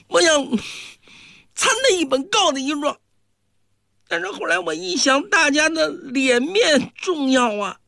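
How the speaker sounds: lightly voiced boy, aggrieved and whispering secrets; young Taoist boy voice. Little disciple confides to his senior brother, lightly aggrieved boy voice. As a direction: tell it like a wronged little disciple.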